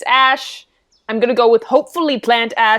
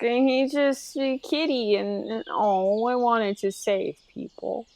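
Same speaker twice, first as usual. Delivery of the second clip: deflated; 10 dB quieter than usual. Acted. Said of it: "That's just my whole demeanor".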